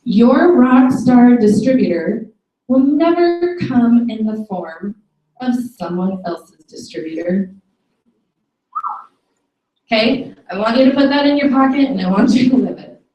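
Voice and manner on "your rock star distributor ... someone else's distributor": slow, deliberate quote reading; emphatic read-out. Real, not acted. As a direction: read it out slowly, phrase by phrase. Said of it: "I'm gonna read it verbatim".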